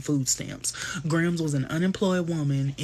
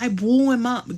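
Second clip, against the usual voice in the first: Piper voice; 8 semitones higher, 4 dB louder than usual. Retold or imitated. Piper quote repeated, louder.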